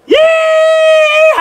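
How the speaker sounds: high, loud whooping Yeehaw; cowboy yeehaw. Real, not acted. Greeting new patrons with a big cowboy yeehaw shout. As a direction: let the cowboy howdy rip. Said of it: "Ready? Here goes".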